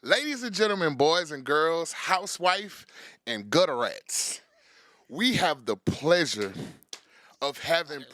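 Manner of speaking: grand ringmaster welcome, drawn out; hype man intro. Acted. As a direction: announce it like a showman. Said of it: "the best hype man".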